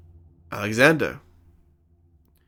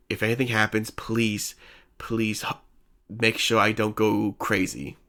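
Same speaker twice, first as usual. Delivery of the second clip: scared plea. Retold or imitated. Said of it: "she's a bit scared of what".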